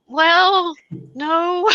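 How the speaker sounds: high, loud, drawn-out objection; firm pushback. Acted. Acting a reply to an insult.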